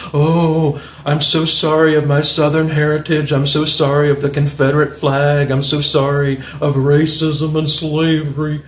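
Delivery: a light send-up of a grovelling apology; lightly mock the self-hating Southerner. Vlogger mocks hick libs with a mild apologetic voice. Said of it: "They're like this".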